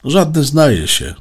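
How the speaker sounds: exasperated sigh-speech. A narrator's reading. Boy protests robot's accusation, high and exasperated. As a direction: push back, exasperated. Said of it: "westchnął Alek".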